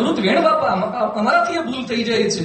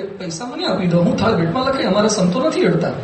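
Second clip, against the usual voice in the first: calm and polite. Shown as a demonstration. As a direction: explain it kindly, no scolding. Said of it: "શાંતિથી કહેવાય કે".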